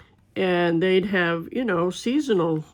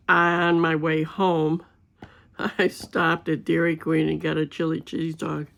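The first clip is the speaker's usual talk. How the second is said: laughing. Real, not acted. Admits the lie, laughs.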